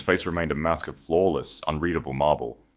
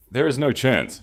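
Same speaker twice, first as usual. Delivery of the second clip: cutting off; 7 semitones higher, 3 dB louder than usual. A narrator's reading. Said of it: "she cut him off entirely".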